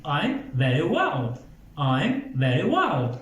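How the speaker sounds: VERY with teeth, WELL with rounded lips; slow, careful v in VERY and w in WELL; V against W. Shown as a demonstration. Teacher models the answer, slow distinct VERY WELL. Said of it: "خیلی دقت کنید اینو".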